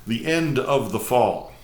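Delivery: measured, emphatic prose-poem recital; poetry reading. Acted. Host reads a prose poem to viewers, measured recital. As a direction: read it out phrase by phrase with deliberate pauses.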